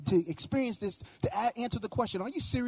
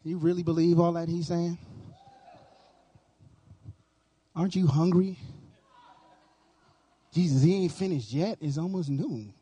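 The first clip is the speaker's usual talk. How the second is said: tempting devil voice; 5 semitones lower than usual. Acted. Voicing the enemy tempting churchgoers.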